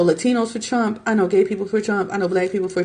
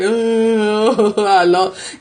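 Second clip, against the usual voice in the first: mock sore loser; much slower than usual.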